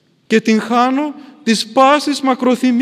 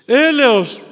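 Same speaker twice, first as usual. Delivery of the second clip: cry for mercy; 5 semitones higher, 4 dB louder than usual. Acted. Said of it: "Φώναξε ο Κυπριανός απ' τα βάθη".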